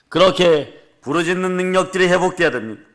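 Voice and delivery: rousing pulpit proclamation; fervent sermon delivery; full-force preaching. Acted. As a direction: preach it out to the congregation.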